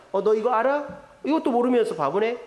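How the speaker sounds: lightly acted taunting question; mocking. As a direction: tease someone for not knowing. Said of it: "이렇게 상대를 조롱하거나".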